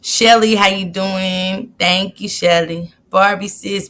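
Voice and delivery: usual speaking voice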